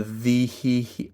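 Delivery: "the" broken into three pulsed vowels; three-vowel chuckling. Shown as a demonstration. Coach showing how to get into the vowel, chuckling it. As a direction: pulse the vowel on one pitch. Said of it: "three vowel chuckling".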